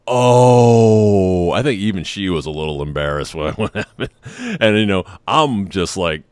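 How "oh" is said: long, louder drawn-out oh, imitated; dawning realization. Operator finally understanding they are newlyweds, mock dawning realization. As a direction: stretch it as the penny drops. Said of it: "it clicked. And she was like".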